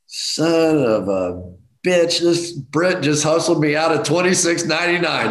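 half-joking anger about being hustled; mock outrage. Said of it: "I was so mad".

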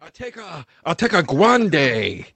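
put-on half-hearted try at a German accent; badly faked German accent; attempted German accent. Improviser ordering at Starbucks, attempted German accent. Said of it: "I thought that was your German accent".

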